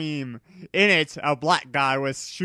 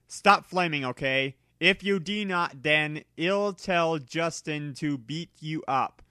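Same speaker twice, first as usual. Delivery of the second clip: annoyed author rant; 3 semitones higher than usual. Acted. Angry author's note to critics.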